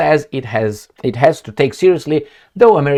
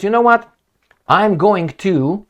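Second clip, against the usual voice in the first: higher, louder defiant warning; defiant woman; 8 semitones higher, 3 dB louder, slower than usual. Retold or imitated. The woman warning her attacker, higher and defiant. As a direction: stand up to him, rising defiance.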